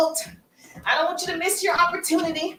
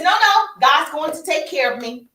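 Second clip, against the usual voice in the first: loud, emphatic brush-off; insistent refusal; 2 semitones higher, 5 dB louder than usual. Acted. Flood victim turning down the rowboat, insistent. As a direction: wave the rescuers away firmly.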